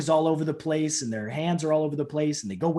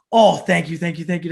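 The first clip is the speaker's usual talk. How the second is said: earnest mock gratitude; grateful; 2 semitones higher, 8 dB louder than usual. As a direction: imitate a gushing thank-you. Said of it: "he's sitting here thanking me".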